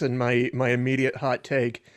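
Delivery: usual speaking voice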